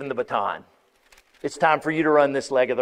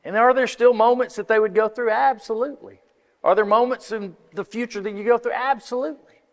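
high, raised rhetorical questions; emphatic preacher's climax; 8 semitones higher, 4 dB louder, faster than usual. Real, not acted. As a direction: lift it up with conviction.

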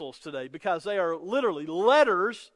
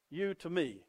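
soft echo; 4 semitones lower, 8 dB quieter than usual. Real, not acted. Soft echo of the previous line.

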